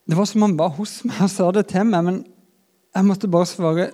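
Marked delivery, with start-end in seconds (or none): none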